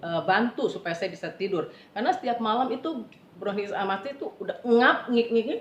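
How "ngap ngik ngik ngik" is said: imitated wheeze. Imitates wheezing bronchitis breathing.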